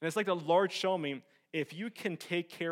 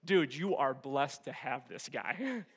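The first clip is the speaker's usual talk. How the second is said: smug inner voice; slower than usual. Retold or imitated. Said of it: "My mentality was".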